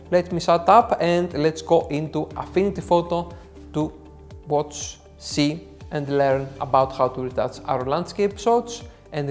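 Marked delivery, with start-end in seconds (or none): none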